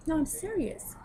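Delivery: high, breathy-free whispered come-on; imitating flirty whisper. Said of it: "And she's like".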